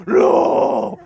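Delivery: loud, high flat refusal; a stubborn shouted no; kids refusing. Retold or imitated. Children refusing to board, loud high no. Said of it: "And they go".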